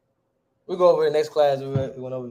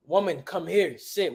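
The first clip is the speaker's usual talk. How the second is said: measured, formal-sounding order; stiff literal command; slower than usual. Shown as a demonstration. Teacher mocking how they try to say it, stiff command. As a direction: recite it like a literal translation. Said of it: "We don't talk like that".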